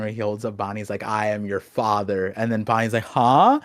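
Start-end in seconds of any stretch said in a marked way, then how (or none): 1.0-2.3 lower, lightly acted dramatic reveal; a hint of a movie villain's solemn reveal; Star Wars father reveal. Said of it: "Oda's a big fan of Star Wars". 3.0-3.6 louder, steeply rising puzzled yelp; acted bewilderment, swooping up; mock surprise. Acts out Bonnie's shocked reply.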